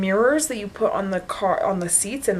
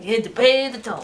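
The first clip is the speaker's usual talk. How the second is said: laughing troll voice; a dim troll demanding the toll. Retold or imitated. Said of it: "my troll voice".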